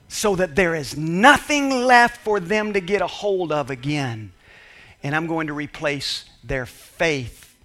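lightly voiced sly enemy, gloating; a hint of a scheming devil; enemy's voice.

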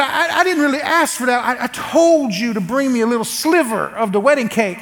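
worked-up, exasperated insistence; mock outburst that starts high; mad. Husband insists he told wife to bring cake, mad. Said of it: "and I'm mad".

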